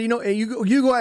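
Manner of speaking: ordinary talk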